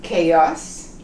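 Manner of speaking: Chaos said kay-oss, hard k. Shown as a demonstration. Teacher contrasts Chaos with Spanish for learners. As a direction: start Chaos with a k sound. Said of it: "it's pronounced chaos".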